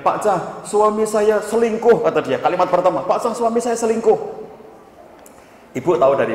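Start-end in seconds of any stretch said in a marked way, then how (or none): 0.1-2.1 high, drawn-out mock sobbing complaint; imitated tearful wail. Wife phoning the counsellor about her husband, imitated tearful wail. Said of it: "dia langsung nangis sesenggukan di telepon". 3.0-4.4 high-pitched retold sobbing plea; imitated tearful wail. Wife repeating her first words on the phone, imitated tearful wail. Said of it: "dia langsung nangis sesenggukan di telepon".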